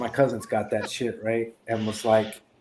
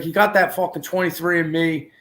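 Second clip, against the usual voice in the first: excited ranting; 6 semitones higher than usual. Retold or imitated. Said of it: "He's like".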